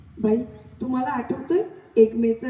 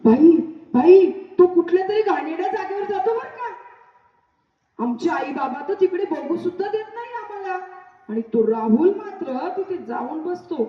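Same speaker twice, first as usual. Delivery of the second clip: breathless tattling; 6 semitones higher than usual. Acted. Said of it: "धापा टाकत आले".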